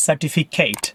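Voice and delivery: "certificate" ending in a full KATE; student mispronunciation. Shown as a demonstration. Teacher imitating students who mispronounce it, mispronounced. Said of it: "I hear students mispronounce it".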